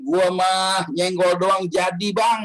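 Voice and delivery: slow, drawn-out bragging; boastful husband quote. Retold or imitated. Husband boasting to the preacher about his pregnant wife, slow smug drawl. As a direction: brag it out lazily, stretching the words.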